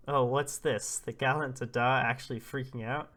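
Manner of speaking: loud mock surprise; teasing. Villager ribbing a nervous father-to-be, acted teasing. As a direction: needle him with exaggerated disbelief, punching the opening. Villagers tease gallant Dada.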